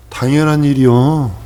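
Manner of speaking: slow, stretched-out matter-of-course answer; unhurried, unimpressed assurance; matter-of-fact reply. Acted. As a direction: draw it out as if nothing is surprising. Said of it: "세상 사람 얘기하는데 우리는".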